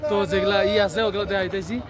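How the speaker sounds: short of breath in thin air; gasping between words; breathless at high altitude. Real, not acted. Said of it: "কথা কওয়া খুব অসুবিধা হয়েছে".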